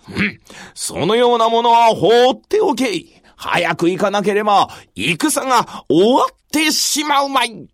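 harsh commanding warlord; booming commanding warlord. Acted. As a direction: coldly order them onward. Nobunaga dismisses fallen.

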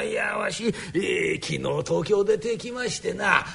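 put-on old father voice. Father explains to the boss.

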